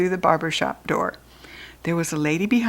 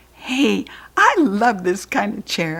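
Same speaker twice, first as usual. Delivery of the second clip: excited; 2 semitones higher than usual. Acted. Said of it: "I said, real excited".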